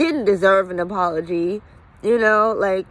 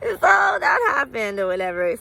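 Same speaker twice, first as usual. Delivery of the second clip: real tears pushing through the words; crying; 5 semitones higher than usual. Real, not acted. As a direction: voice breaking into a tearful cry. Emotion breaking through while recounting loss.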